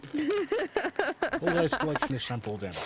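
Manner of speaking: high, slow announcer voice; dramatic announcer. Acted. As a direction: announce it like a big reveal.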